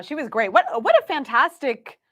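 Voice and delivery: normal talking voice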